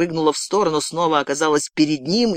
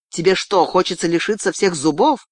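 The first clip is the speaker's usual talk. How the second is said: menacing question, pitched up; threatening; 4 semitones higher than usual. Acted. Girl to captive who won't answer, threatening. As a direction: challenge him with a raised voice.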